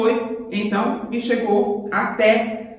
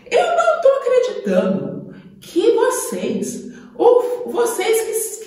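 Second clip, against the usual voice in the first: put-on much higher, outraged young David voice; indignant young David; 6 semitones higher than usual. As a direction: cry out in disbelief at the cowards. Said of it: "ficou com tanta raiva daquele gigante".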